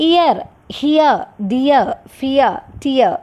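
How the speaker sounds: ഇയർ, ഹിയർ, ഡിയർ slowly, gliding "ee" into "uh"; slow, separated drill of ഇയർ with its "ee-uh" ending; example words for ഇയ. Shown as a demonstration. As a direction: draw out the "ee-uh" glide in ഫിയർ, ടിയർ. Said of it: "ഇയ എന്ന് പറയുന്ന sound വരുന്നതോ".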